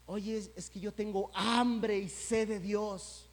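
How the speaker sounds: slow, drawn-out claim of longing; mild mock plea. People telling the preacher they hunger for God, slow mock plea. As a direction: stretch out hambre like a casual boast. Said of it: "que dicen".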